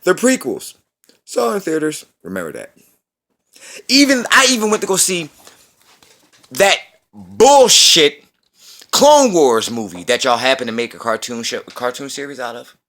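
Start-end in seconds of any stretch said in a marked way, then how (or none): 3.9-12.7 scornful. Real, not acted. Mocking the Clone Wars movie.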